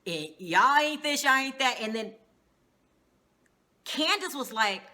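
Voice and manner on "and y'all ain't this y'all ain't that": a loud, mock furious boss; hammed-up raging chef, louder; imitating a rage. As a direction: boss ranting at his staff. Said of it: "he's in a rage".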